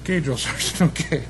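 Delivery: softly giving in, acted out; mock-meek, hushed agreement with a chuckle; meek retold compliance. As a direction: back down quietly to the drill sergeant.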